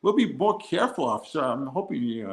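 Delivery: put-on polite American tourist accent. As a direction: lay on a chatty, innocent American accent for the officer. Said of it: "I pull on my American accent".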